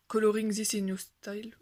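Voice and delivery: English title in a French accent. Real, not acted. Colorist reading a challenge's English title to viewers, French-accented English. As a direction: read the English words with French pronunciation. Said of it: "on salue mon accent anglais".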